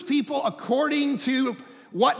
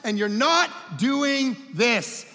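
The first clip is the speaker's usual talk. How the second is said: God addressing us; 4 semitones higher than usual. Retold or imitated. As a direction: speak as God calling people out. Voicing God to people.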